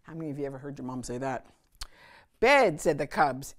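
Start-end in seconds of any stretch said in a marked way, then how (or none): 2.4-2.8 put-on protesting kids. A narrator's reading. Cubs protest bedtime.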